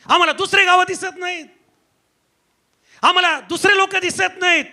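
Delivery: insistent, ringing sermon delivery; forceful preaching. Acted. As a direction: drive each accusation home in parallel phrases.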